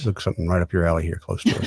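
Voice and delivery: playfully threatening voice. Teasing a co-host while previewing a later topic: mock menacing tone. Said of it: "You seem menacing in the way you previewed that".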